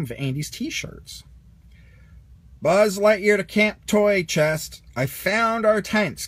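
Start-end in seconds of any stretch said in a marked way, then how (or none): 2.6-6.3 slow, louder radio-style announcement; Buzz calling in. A narrator's reading. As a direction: report in like a space ranger over the radio. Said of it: "called Buzz".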